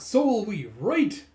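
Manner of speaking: high, loud acted enthusiasm; eager chiming in. Others wanting to join the trip, loud eagerness.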